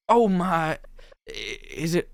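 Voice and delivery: high, uncertain first try; botched flirting line. Acted. Heroine retrying a line she botched, unsure. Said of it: "say it wrong?".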